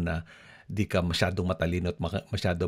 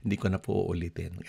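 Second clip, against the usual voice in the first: quick apology. Shown as a demonstration. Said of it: "show that you mean it".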